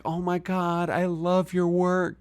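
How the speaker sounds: high, soft starstruck gush; gushing fan. Retold or imitated. A partygoer meeting Mary gushes breathlessly. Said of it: "And she'd be like".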